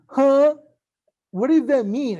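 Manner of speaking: high, loud puzzled huh; confused partner. Retold or imitated. Confused date reacting to the love poem, loud and puzzled. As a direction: play the baffled date who doesn't get it. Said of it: "if they tell you".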